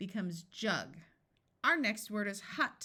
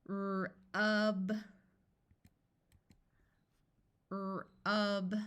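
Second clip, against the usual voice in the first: said slowly. Shown as a demonstration. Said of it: "I'm going to say a word slowly".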